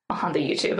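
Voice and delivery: low, mock old-timer muttering "the YouTube"; lightly voiced old-timer; old person. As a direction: say "On the YouTube" like a grandpa. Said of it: "I sound like an old person".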